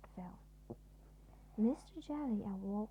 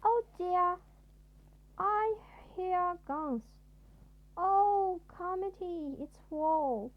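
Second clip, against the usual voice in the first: very high, loud wailing; hysterical panic; 9 semitones higher, 9 dB louder, slower than usual. A narrator's reading. Mister Jelly hearing cereal pop as guns, panicking loudly. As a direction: shriek that war has come.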